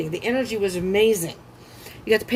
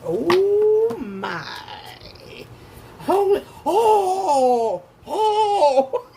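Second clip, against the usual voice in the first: shocked exclamation; 9 semitones higher, much slower than usual. Real, not acted. Reader stunned by the Aquarius cards, shrieking with laughter. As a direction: gasp it out, floored by the cards.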